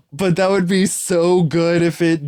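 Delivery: high, slow, drawn-out plea; hammed-up disappointed enthusiasm; exaggerated protest. Fooled listener pleading for the joke to be true, high dramatic protest.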